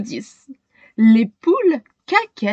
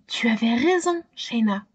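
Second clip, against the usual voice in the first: murmur; 8 dB quieter than usual. A narrator's reading. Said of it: "murmure-t-il".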